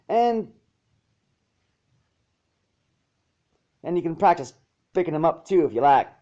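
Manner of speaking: put-on easygoing country girl apologizing; Applejack. Applejack voiced in story.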